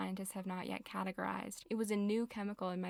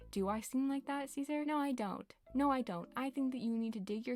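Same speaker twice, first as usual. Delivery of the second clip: higher-pitched, affronted retort; indignant rant; 5 semitones higher than usual. Acted. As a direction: scold him in mock outrage, voice pitched up. Mock-scolding villager Caesar in a rant.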